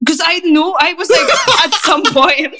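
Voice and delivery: giggling nervously; words broken by laughter. Real, not acted. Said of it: "the speaker's nervous laugh".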